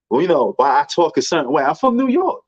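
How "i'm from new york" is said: emphatic. Real, not acted. Defending his way of talking.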